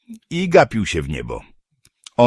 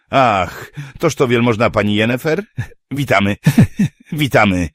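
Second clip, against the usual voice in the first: mock welcome; 6 semitones higher than usual. A narrator's reading. Dwarf mock-greets Yennefer.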